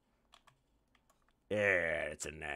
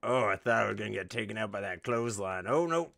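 fast, loud, rising panic; excited shout; 6 semitones higher, 14 dB louder than usual. Real, not acted. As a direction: shout with a rush of relief. Near miss in game.

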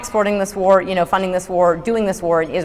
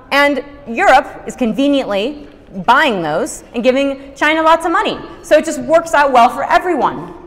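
sarcastic; 4 semitones higher than usual. Real, not acted. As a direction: say it with mock approval. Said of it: "There's a lot of sarcasm there".

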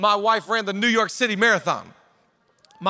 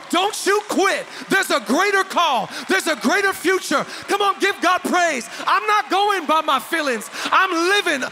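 rousing exhortation; 6 semitones higher than usual. Real, not acted. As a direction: lift the room, urge them on. Preacher building to exhort.

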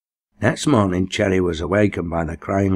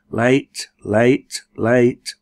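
whistle call; 5 semitones higher, 5 dB louder, much slower than usual. A narrator's reading. Factory whistle calling.

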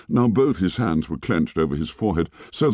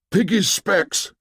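high, urgent shout, slower; 11 semitones higher, slower than usual. A narrator's reading. Ralph shouts back for Piggy's glasses, high and urgent. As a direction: bark the order up the slope. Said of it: "shouted Ralph".

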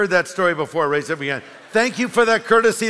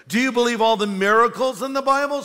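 booming atheist; 6 semitones higher than usual. Acted. Atheist voiced in story.

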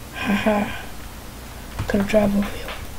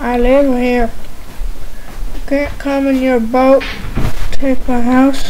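higher, snooty territorial squid voice; mock squid voice; 4 semitones higher, 4 dB louder than usual. Voicing the squid telling the player to leave. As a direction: voice the squid defending its home. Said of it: "You're all like".

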